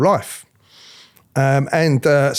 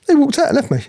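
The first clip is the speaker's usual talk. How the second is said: laughing disbelief; 12 semitones higher, 3 dB louder than usual. Real, not acted. Laughing at being abandoned.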